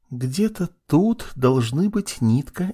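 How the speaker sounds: high, slow, eerie whisper; creature whisper. A narrator's reading. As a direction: murmur like a searching creature. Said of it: "шепчет существо".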